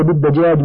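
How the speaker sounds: بالدجاج with a after د; fatha on dal. Shown as a demonstration. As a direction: say بالدجاج as bid-dajaj. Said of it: "بفتح الدال".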